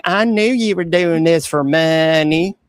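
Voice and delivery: lightly voiced whiny troll, slow; a hint of a sneering troll; mock troll voice. Bishop mimicking a troll's accusation with light mock whine. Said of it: "That's how they talk".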